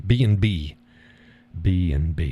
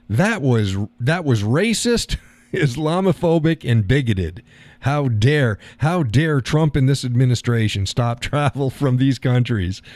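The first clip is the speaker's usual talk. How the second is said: hammed-up righteous indignation, pitched up; mock indignation; 4 semitones higher than usual. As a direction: play up someone's scandalized protest. Mimics TV host's outraged accusation.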